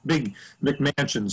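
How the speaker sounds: laughing. Real, not acted. Laughs mid-phrase.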